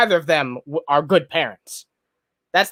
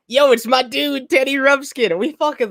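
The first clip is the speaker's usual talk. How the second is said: excited shout-out; 7 semitones higher than usual. Real, not acted. Hyping a viewer in chat.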